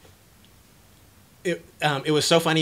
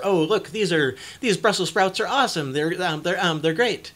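higher, louder gushing over vegetables; hammed-up excitement; 7 semitones higher, 7 dB louder than usual. Parent showing kid at the store, hammed-up delight. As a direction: oversell it like a cheerful parent.

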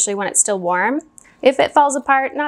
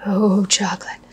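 hushed whisper of delight; 2 semitones lower than usual. Real, not acted. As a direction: whisper it to yourself. Admiring the chocolate.

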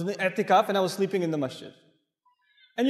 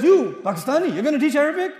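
louder, higher scornful jab at "Pakistani"; mocking challenge; 6 semitones higher, 5 dB louder than usual. Egyptian man doubting the Pakistani teacher, loud mocking question. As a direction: needle him like a scoffing elder.

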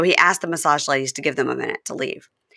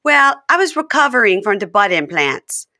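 high, loud sing-song coaxing; hammed-up wheedling confession; mock Jasmine coaxing; 10 semitones higher, 6 dB louder than usual. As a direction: sweet-talk him into it. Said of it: "And she goes".

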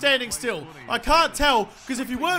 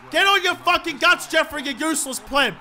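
higher, forceful berating; real frustrated outburst; angry yelling; 4 semitones higher than usual. Real, not acted. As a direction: lay into a useless teammate. Yells at Jeffrey.

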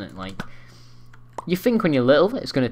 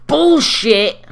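high, loud shriek; shrieked outrage; 12 semitones higher, 9 dB louder than usual. Real, not acted. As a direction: scream it in protest. Killed by opponent.

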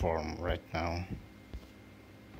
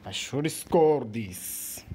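frustrated groan; 5 semitones higher, 8 dB louder, slower than usual. Real, not acted. Frustration at missing.

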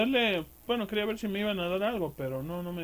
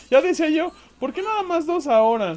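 excited; 8 semitones higher, 10 dB louder than usual. Real, not acted. Excited after fight.

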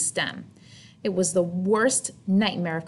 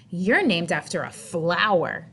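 mocking taunt; 2 semitones lower than usual. Victoria teasing Chrysanthemum.

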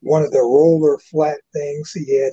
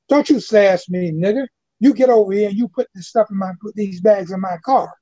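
fast, raised-pitch mock scolding; angry demand; 5 semitones higher than usual. White woman berates old man.

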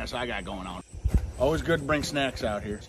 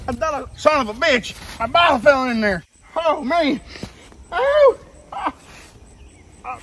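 high, loud frustrated yells; angry yelling; 10 semitones higher, 7 dB louder than usual. Acted. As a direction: yell as the bottle falls. Dropped bottle.

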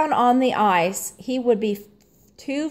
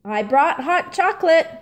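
tempting offer; 7 semitones higher, faster than usual. A narrator's reading. Coach tempting skaters.

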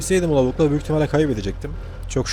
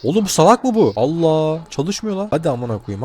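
higher, louder exasperated yell; frustrated outburst; 5 semitones higher, 4 dB louder than usual. Real, not acted. Player yelling at a car that won't start, frustrated shout. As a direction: blow up at the stubborn engine.

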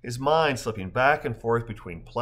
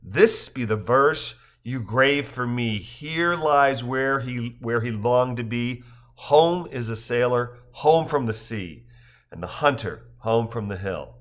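slow, weighted verse, falling at the end; pointed poem recitation; slower than usual. A narrator's reading. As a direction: recite pointedly, lingering on words. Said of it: "adding more pointedly".

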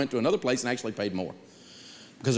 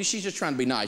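normal talking voice

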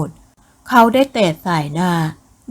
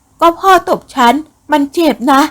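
put-on higher, slow, hurt young woman's protest; hurt daughter; 7 semitones higher, 4 dB louder than usual. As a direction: whine it out as the slapped daughter. Daughter complains father hit her.

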